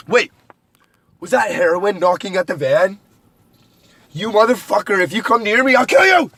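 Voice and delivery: building from a wary question to a high yelled threat; mock threat. Imagined viewer yelling threats at a knock on the van. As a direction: play the watcher, jumping from suspicion to a shrieked threat. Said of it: "And then they were like".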